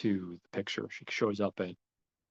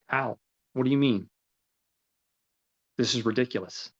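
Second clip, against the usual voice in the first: mild acted incredulity, raised pitch; retold disbelief; 3 semitones higher than usual. Fernand reacting to the accusation, mock disbelief. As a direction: imitate someone who can't believe it. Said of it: "Fernand's in disbelief. He can't believe".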